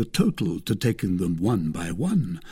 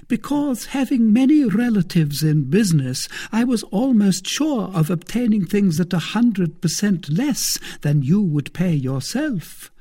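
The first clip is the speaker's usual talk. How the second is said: a higher, louder voice for the thrifty procurator's wife; Madame Coquenard, coaxing; 11 semitones higher, 5 dB louder than usual. Acted. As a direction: play the careful wife bargaining. Madame Coquenard quoted in the story.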